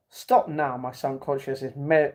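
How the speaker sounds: usual speaking voice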